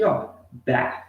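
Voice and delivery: bath with tongue between teeth, blowing air; teacher demonstrating English th; clear TH demo. Shown as a demonstration. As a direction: show the th in bath. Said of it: "Mais uma vez a pronúncia".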